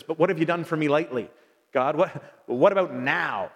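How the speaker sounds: lightly acted impatient complaint, slowing onto NOW; mock demanding mindset. Preacher voicing a forgetful mindset to God, mock demanding. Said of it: "we get a mindset that says".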